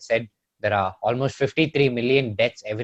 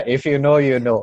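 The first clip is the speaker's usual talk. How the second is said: laughing through words; giggling as you talk; 3 semitones higher, 6 dB louder than usual. Real, not acted. Laughing at joke.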